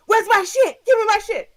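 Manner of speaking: hammed-up demanding shout; mock angry demand. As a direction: bark it like the furious passenger. Imitating the angry passenger.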